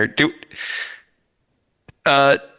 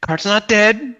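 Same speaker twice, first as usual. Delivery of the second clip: anxious protest; 3 semitones higher than usual. Acted.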